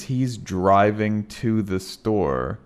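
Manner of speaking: "to" reduced to a quick t before "the". Shown as a demonstration. Teacher slowly demonstrating reduced "to". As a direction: say "to" as a light t, slow demo. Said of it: "it actually sounds like".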